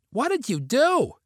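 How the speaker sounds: high, astonished question; stunned. A narrator's reading. Sister asking Vinny about the empty bowl, stunned voice. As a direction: ask it high, truly taken aback. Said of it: "she asked in a stunned voice".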